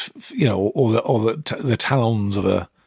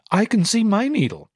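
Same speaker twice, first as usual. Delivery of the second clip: much higher mocking excuse; smug stepdaughter; 10 semitones higher than usual. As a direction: gloat over the needle.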